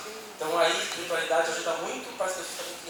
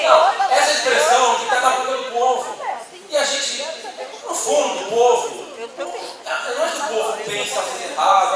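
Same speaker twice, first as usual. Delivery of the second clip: laughing while talking; 7 semitones higher, 7 dB louder than usual. Real, not acted. Laughing with the audience.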